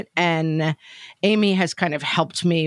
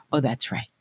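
sheepish daughter; 2 semitones lower than usual. Retold or imitated. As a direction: imitate the kid backing down with a laugh. Daughter's sheepish reply, retold.

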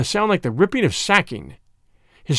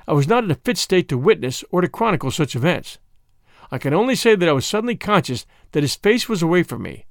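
plain reading voice

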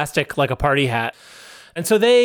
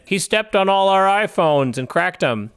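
retold accusers; 5 semitones higher than usual. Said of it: "And then they said".

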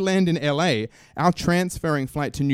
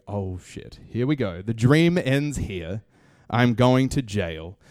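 resigned dread; 4 semitones lower, slower than usual. Retold or imitated. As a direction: accept your fate slowly, mock-solemn. Retelling his dread at being summoned.

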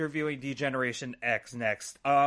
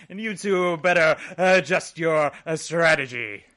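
louder, mock-threatening boss son; hammed-up louder villain warning; imitating Shane; 8 dB louder than usual. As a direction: warn them like a smug heir, laughing at the end. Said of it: "where Shane got his".

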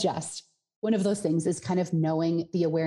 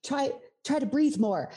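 high mock nagging inner voice; hammed-up inner critic, much higher; playful nagging; 8 semitones higher than usual.

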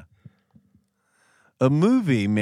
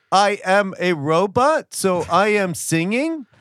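robot voice; 4 semitones higher than usual. Shown as a demonstration. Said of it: "Oh, like this?".

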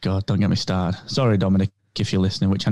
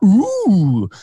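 excited fan reaction; 2 semitones higher, 3 dB louder, slower than usual. Acted. Fan reacting to an orange lightsaber, excited. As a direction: play an impressed fan spotting a detail.

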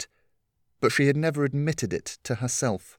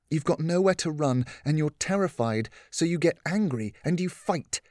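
higher woman's voice, gently explaining; lightly voiced caring mentor; patient Catherine; 5 semitones higher than usual. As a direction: reason with her kindly. Catherine continues.

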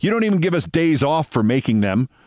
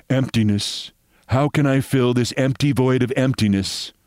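moody perfume ad voice. Retold or imitated. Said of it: "She is supposed to say".

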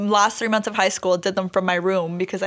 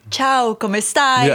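slow careful Italian greeting; nervous learner practicing Italian; Italian practice phrases; 3 semitones higher, 3 dB louder, much slower than usual. Retold or imitated. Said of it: "I was like, practicing".

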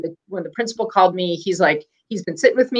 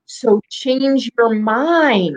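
imitating her son; 4 semitones higher, much slower than usual. Son voiced in a retold story.

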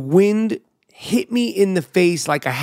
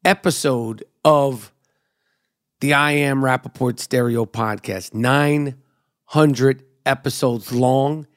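hype podcast intro. Acted. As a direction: roll out the nicknames like a ring announcer. Podcast host intro over music.

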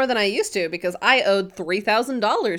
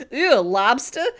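lightly voiced gangster's girlfriend, a bit higher; 4 semitones higher than usual. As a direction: play a squeamish gangster moll, lightly. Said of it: "does this gangster girlfriend voice".

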